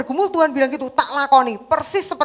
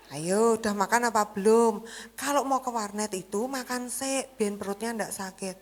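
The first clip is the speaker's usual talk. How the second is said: softer, gentle concern; soft motherly care; 2 semitones lower, 6 dB quieter than usual. Retold or imitated. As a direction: coax the son kindly. (ibu lembut penuh perhatian)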